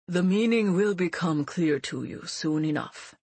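put-on a grave old teacher; old mentor voice.

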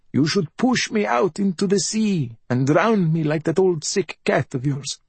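high, self-pitying bedridden mother; high-pitched raspy invalid voice; rasping mother. A narrator's reading. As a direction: rasp it high, a mother playing at dying.

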